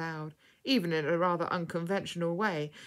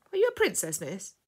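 put-on little boy asking; 2 semitones higher, 4 dB louder than usual. A narrator's reading. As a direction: ask it like an awed small lad. Little lad questions her.

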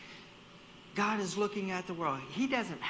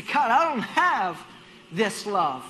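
1 pleading prayer; 3 semitones higher, 9 dB louder, slower than usual. Acted.

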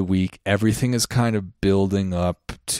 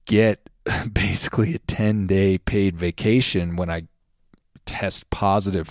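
laughing whisper. Real, not acted. Joking about covid sick leave.

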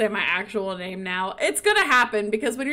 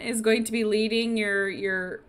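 acted condescending doubt; slower than usual. He doubts a woman can rule.

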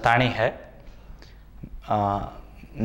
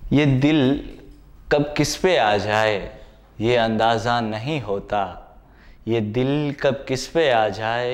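measured sher recitation with lifted openings and falling line ends; poetry recital. Acted. Poet presents a sher on the heart to viewers, reciting. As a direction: recite the couplet in phrases, pausing between them.

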